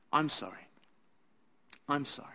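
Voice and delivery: under the breath. Retold or imitated. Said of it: "say them under my breath".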